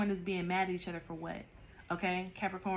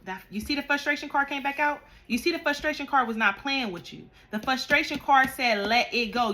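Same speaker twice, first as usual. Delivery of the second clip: loud, high, worked-up lecturing; emphatic scolding; 3 semitones higher, 8 dB louder than usual. Real, not acted. Tarot reader scolding Capricorns about communicating angrily. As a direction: tell them off with force.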